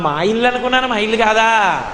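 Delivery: lightly acted, lilting child's plea; child's innocent excuse. Child Krishna caught in a neighbour's house, mock-innocent plea. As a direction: lift it up and stretch the ending.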